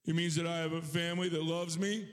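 hint of a small child answering dad; five-year-old son. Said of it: "And he says".

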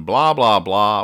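loud mock phone chatter. Host imitating carpoolers on cell phones, mock chatter. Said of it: "they're going".

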